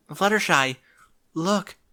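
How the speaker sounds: urgent Twilight voice. Acted.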